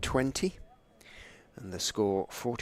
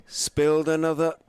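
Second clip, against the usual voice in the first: excited commentary; 5 semitones higher, 5 dB louder than usual. Real, not acted. Dropped catch, live call.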